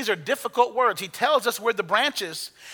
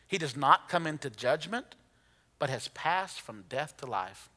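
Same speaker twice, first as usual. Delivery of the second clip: soft scripture reading; 5 semitones lower, 7 dB quieter than usual. Acted. Reading Jesus's words softly.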